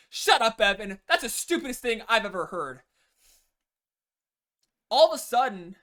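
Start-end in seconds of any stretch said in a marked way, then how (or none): 0.1-2.8 loud, scornful put-down; mean girl snapping. Retold or imitated. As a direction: snap it out to shut him up. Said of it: "and she says".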